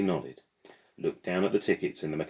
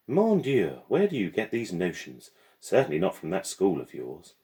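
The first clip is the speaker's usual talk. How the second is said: louder, exasperated French guardian; a hint of a scolding French lady; exasperated Madame; 3 semitones higher, 5 dB louder than usual.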